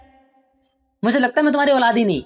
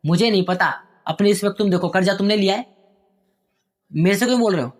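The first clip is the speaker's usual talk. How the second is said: angry son. Acted. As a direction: throw the debt back at father. Son arguing with father. (पिता से बहस करता बेटा)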